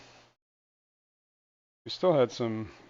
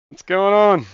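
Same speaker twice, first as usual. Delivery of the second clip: high, loud put-on lady voice; a playful fake lady voice; 8 semitones higher, 14 dB louder, slower than usual. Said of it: "in fake lady voice".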